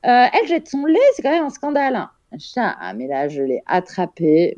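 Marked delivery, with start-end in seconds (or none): 0.0-2.1 high, scandalized gossip; hammed-up scandalized gossip; gossiping nurse. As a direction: play her outraged tattling to colleagues. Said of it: "en disant".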